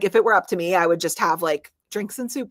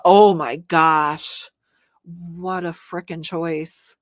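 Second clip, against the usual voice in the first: torn; 5 dB louder, much slower than usual. Real, not acted. Torn between two books.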